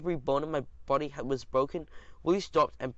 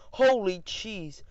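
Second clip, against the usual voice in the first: surprised; 5 semitones higher, 4 dB louder, much slower than usual. A narrator's reading. Narrator exclaims in shock.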